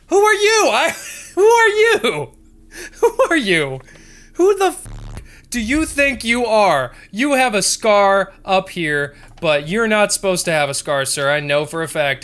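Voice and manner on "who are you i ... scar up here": much higher and louder squeaky demand; high, loud, indignant shouting; mock shouted interrogation. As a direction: scream at him like a furious guard. Shouting at game character.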